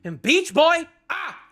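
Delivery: high-pitched, overwhelmed excitement; fan gushing. Real, not acted. Fan raving that JoJo fights are so good, high-pitched gushing. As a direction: gush helplessly, pitch soaring.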